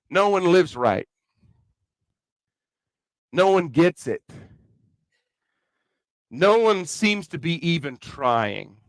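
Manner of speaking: slow, lightly voiced Kentucky farmer; hint of a plainspoken farmer, long pauses between sayings. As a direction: put it simply, like a country farmer. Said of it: "this farmer from Kentucky would have said it like this one".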